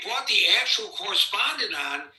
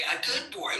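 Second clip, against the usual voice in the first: put-on softer, sneering "A good boy"; sarcastic; 6 dB quieter than usual. Host showing how the president did not say it, sarcastic. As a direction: drip the words with mockery. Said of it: "That's my sarcasm".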